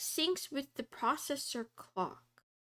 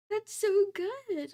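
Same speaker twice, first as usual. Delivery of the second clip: slow, louder, stretched out on so; delighted exclaim; 8 semitones higher, 5 dB louder, slower than usual. Real, not acted. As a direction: savour the so as a loud treat. Repeats phrase two ways.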